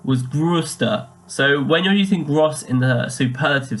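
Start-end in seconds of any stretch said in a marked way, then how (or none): 0.2-1.0 "größter" with a drawn-out umlaut ö. Shown as a demonstration. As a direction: stretch the rounded ö in "größter". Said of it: "with the O umlaut".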